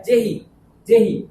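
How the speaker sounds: जेहि with a brief "जे"; very short vowel. Shown as a demonstration. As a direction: clip the ए in जेहि to a light syllable. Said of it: "इसका उच्चारण बहुत ही कम समय".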